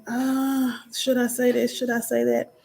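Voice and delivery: mildly acted worry; intimidated self-doubt. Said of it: "get intimidated because I'm like".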